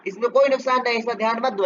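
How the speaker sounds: दहाड़ते हुए; mock roar. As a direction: bellow it at the boy. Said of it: "और डहारा".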